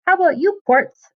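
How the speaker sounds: high, talking through a mouthful; mouth full. A narrator's reading. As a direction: ask around a bite of sausage. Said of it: "through a mouthful of sausage".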